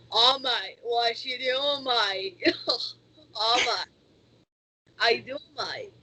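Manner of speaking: child's put-on Australian accent. Shown as a demonstration. Kid interviewer showing off to the guest, put-on Australian accent. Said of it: "my Australian one".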